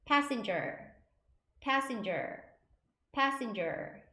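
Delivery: "passenger" as an isolated model, falling tone; repeat-after-me demo. Shown as a demonstration. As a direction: say "passenger" clearly, first syllable stressed. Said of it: "세 번 따라해 보실게요". ("passenger"를 따라 하도록 또박또박)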